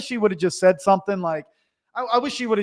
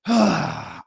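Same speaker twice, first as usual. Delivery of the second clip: long audible sigh; exasperated sigh. Retold or imitated. Contractor facing an unhappy client, exasperated sigh. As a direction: let out a big sigh.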